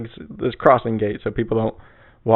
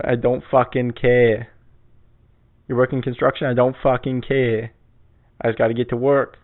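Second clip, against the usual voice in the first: mock New York accent. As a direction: imitate a gruff-talking East Coaster's accent. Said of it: "that's the worst accent ever".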